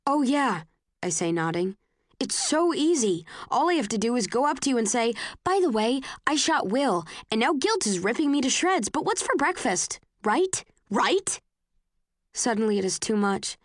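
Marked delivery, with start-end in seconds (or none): 0.1-0.6 sarcastic. Acted. Tris mocks Tobias sarcastically. 2.2-11.4 mock how easy it would be, biting; bitter, sneering sarcasm; sarcastic. Tris mocks Tobias sarcastically.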